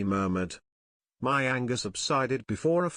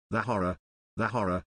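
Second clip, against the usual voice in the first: haunted whisper; 3 semitones lower, faster than usual. Acted. Kurtz's last words echoed in dusk.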